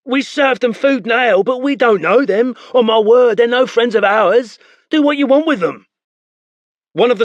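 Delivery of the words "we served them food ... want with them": high, fearful tavern keeper begging; pleading innkeeper. Acted. Innkeeper begs the spearmen, high and frightened. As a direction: plead for your life, voice pitched up.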